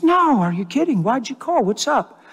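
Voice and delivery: retold friendly phone reply; easy reassurance. Preacher acting out waving off his supervisor's day-off apology, reassuring.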